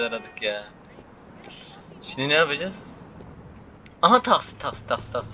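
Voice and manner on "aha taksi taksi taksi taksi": loud hail for a taxi, then fading; calling out. Real, not acted. Gamer hailing a taxi on screen, loud call fading. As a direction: shout "taksi" then trail off.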